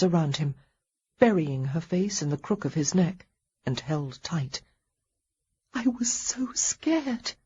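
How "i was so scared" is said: high, slow whisper. Acted. Heroine clinging to him, whispering. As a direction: breathe it into his neck. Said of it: "she whispered".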